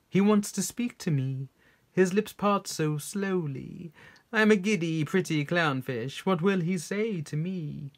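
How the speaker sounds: lightly voiced preening little fish; vain clownfish. Recites poem as vain clownfish.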